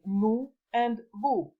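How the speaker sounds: "nous and vous" with OU said as a long oo. Shown as a demonstration. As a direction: draw out "nous and vous" slowly, rhyming on oo. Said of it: "O and U is pronounced as U".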